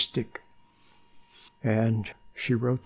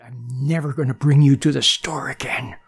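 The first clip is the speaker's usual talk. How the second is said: whispered mother threat. Retold or imitated. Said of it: "And she said".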